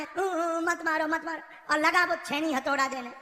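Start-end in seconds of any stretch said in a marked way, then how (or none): 0.0-1.4 mock crying. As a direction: pretend wail, pleading. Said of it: "अब वो पत्थर लगा रोने". (रोने की नकल में गिड़गिड़ाते हुए)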